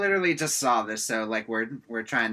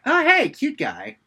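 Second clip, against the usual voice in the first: much higher, slow flirty coo; 11 semitones higher, 7 dB louder, slower than usual. Retold or imitated. Sister and friend greet cute guy, flirty coo. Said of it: "the sister and her best friend are like".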